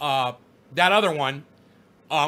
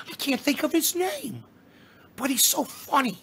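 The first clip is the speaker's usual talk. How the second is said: high, put-on goofy comic voice; pitched-up mock comedian impression; comedian's funny voice; 7 semitones higher, 4 dB quieter than usual. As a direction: mimic the comedian's silly high voice. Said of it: "talks like this".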